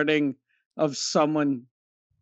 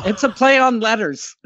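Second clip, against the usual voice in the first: words spilling through laughter; laughing; 5 semitones higher, 6 dB louder than usual. Real, not acted. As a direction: laugh while saying it. Joking about a play on letters.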